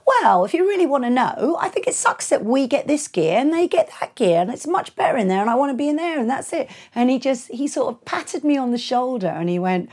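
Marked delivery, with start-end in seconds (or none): 0.1-6.7 heated retort. Retold or imitated. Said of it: "and I said to him".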